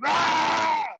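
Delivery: high, loud "aah" of triumph; re-enacted yell in a scuffle; battle yell. Acting out the scuffle.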